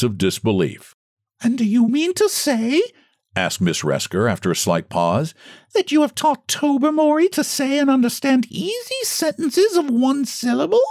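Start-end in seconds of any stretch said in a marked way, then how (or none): 1.4-2.8 much higher, incredulous society lady; high lady's voice. A narrator's reading. Miss Resker's question. 5.7-10.8 much higher, incredulous society lady; high lady's voice. A narrator's reading. Miss Resker continues.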